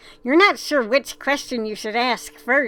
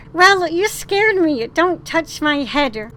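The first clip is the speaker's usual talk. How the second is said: startled; 4 semitones higher, 3 dB louder, slower than usual. Acted. Girl startled by touch.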